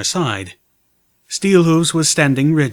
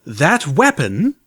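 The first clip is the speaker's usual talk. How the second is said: slow, gruff insisting soldier; gruff mare; 4 semitones higher, much slower than usual. Acted. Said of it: "a gruff mare's voice insisted".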